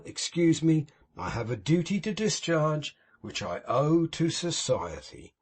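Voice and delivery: a hint of mournful piety put on for show; unctuous Pecksniff. Pecksniff grieving over Tom to old Martin, sanctimonious. Pecksniff reassures, then duty.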